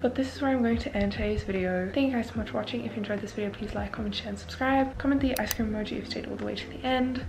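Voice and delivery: talking with a retainer in; slightly thick speech from retainers; wearing a retainer. Real, not acted. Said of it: "put on my retainers".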